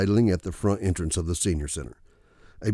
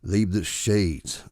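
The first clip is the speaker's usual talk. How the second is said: growl; much slower than usual. Acted. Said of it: "I growled".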